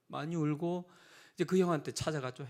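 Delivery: usual speaking voice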